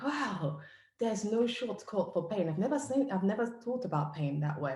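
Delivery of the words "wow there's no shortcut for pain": higher, slow, struck by the words; awed wow. Retold or imitated. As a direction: let it sink in with wonder. Host echoes the quote in awe.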